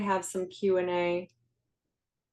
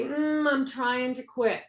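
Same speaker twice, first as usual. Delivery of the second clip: hesitant quote; 3 semitones higher, slower than usual. Retold or imitated. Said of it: "didn't say".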